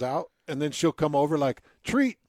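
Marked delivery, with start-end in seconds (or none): 1.8-2.2 squeaky high little dog. Retold or imitated. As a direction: chirp it like a tiny dog. Dog asking for treat.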